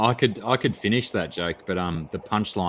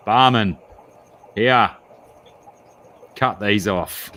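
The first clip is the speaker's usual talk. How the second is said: Hawaiian in joke; 5 dB louder, slower than usual. Acted. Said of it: "and says".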